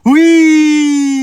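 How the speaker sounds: sudden loud, high yes. Acted. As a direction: blurt the yes out eagerly. Shouts yes after saying no.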